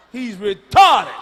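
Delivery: loud, drawn-out stress on "retarded"; blunt correction. Shown as a demonstration. Comedian rejecting the polite term, loud slow punch on "retarded".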